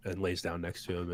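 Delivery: ordinary talk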